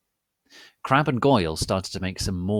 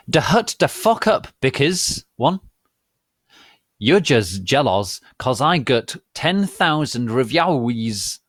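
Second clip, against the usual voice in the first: put-on loud, high, bratty teenage girl; teen author voice; 4 semitones higher, 6 dB louder than usual. Teen author shouting at her critics, bratty and high. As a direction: sneer it like a petulant teen writer. Reads the author's note in character.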